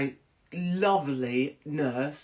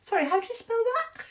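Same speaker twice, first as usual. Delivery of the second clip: mock polite. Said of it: "I was like".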